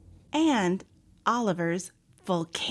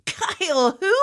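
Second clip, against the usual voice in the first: amused, high and loud query; a touch of laughter in the question; laughing; 7 semitones higher, 5 dB louder than usual. A narrator's reading. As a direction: ask in mock disbelief, amused. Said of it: "Papa said, laughing".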